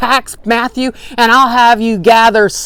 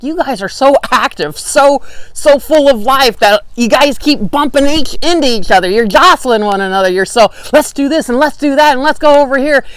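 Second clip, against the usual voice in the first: high, louder, lively voicing of the busy Corinthians; excited churchgoers; 5 semitones higher, 4 dB louder than usual. Preacher voices the Corinthians as overly eager. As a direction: bubble over with eager energy. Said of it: "the whole first epistle is like".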